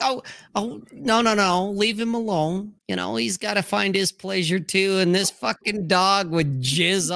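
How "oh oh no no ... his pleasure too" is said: higher, doting coo, lightly acted; indulgent mom. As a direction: play the mom shielding the dog. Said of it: "the mom would be like".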